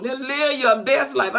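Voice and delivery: drawn-out mock blessing; slow sarcastic refrain. Preacher sarcastically blessing the congregation, slow and drawn out. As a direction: stretch the words out with irony.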